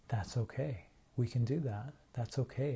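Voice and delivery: soft loving reassurance. Retold or imitated. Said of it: "with these loving, accepting eyes".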